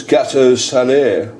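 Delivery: gâteau salé with a put-on French flourish; showy French pronunciation. Shown as a demonstration. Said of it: "say it like that".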